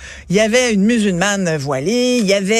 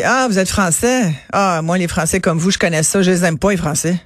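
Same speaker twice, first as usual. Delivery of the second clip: lightly voiced woman, blunt and dismissive; a hint of a rude clerk saying it flatly; retelling the rude lady's words, barely acted; rude lady's remark. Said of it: "La dame lui dit".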